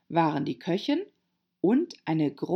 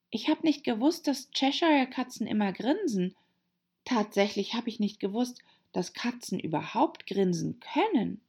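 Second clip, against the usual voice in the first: leicht gespielte, höhere Mädchenstimme; Alice, höflich staunend; 5 semitones higher than usual. Acted. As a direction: arglos staunen, etwas höher sprechen. Voices Alice in the story. (höflich staunende Mädchenfigur, leicht angedeutet)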